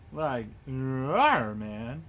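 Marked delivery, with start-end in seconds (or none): 0.7-1.6 playful mock roar. Imitated animal growl in play.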